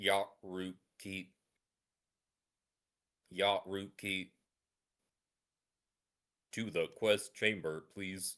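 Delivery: robotic voice, muffled. Game master voicing someone knocking at the player's door, muffled robotic voice. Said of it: "a muffled robotic voice through your door says".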